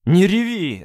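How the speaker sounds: loud, high yell. Acted. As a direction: bark it at her. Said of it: "заорал Мессарж". (Мессарж орёт на плачущую Дану)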